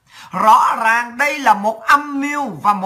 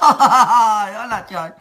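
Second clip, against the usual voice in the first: laughing exclamation. Real, not acted. Gloating over her scheme against rivals, laughing. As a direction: laugh through the words, amused at herself.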